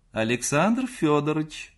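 high call from another room; крик из комнаты. A narrator's reading. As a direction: call out sharply to someone next door. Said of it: "закричала вдруг мать из своей комнаты". (мать кричит из своей комнаты)

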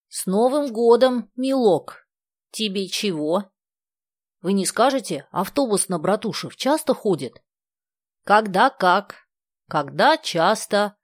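put-on a light, high old granny voice; old village woman. A narrator's reading. Old woman in felt boots answers the kids, lightly voiced.

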